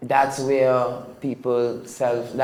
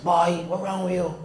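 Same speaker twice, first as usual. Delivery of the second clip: lightly acted higher-pitched parental scolding; mock scolding father; 7 semitones higher than usual. Father to his child after a scuff on the head, mock scolding. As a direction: imitate a dad pulling up his child.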